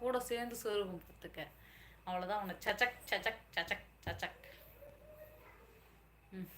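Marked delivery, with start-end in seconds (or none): 2.7-4.4 quick mock stabbing sounds, "cha-chak"; imitated stabbing noise. Warning him she'll stab, playful stabbing sounds. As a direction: act out jabs with sharp little noises.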